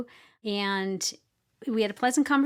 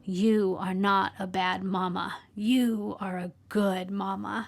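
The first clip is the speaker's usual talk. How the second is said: slow, measured comfort; earnest reassurance; slower than usual. Retold or imitated. Young son holding his mother's cheeks, earnest reassurance. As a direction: retell a child's reassurance, word by slow word.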